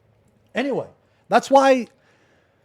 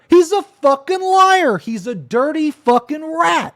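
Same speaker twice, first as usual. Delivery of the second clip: high, loud, spitting contempt; raging at the rat who lied; furious insult; 12 semitones higher, 6 dB louder than usual. Real, not acted. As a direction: hurl the insult at him. Denouncing the accuser.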